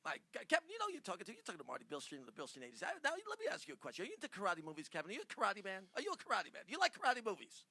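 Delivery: brash, booming fast-talking agent; loud showbiz agent. Pretend. Prank caller booming at Kevin as a blustering agent. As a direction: bark it like a pushy Hollywood agent. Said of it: "Do it, do it as Brian".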